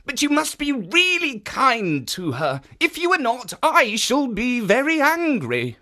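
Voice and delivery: a lightly voiced kindly guardian; kindly statue voice. Jitso warns.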